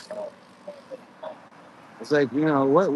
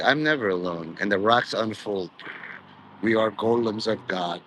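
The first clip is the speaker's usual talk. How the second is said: a lower, movie-prophet take on never alone; quoting Noah; 4 semitones lower than usual. Retold or imitated. Noah answering Ray Winstone, voiced lower. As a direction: drop the voice down like Noah on screen. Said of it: "It's like".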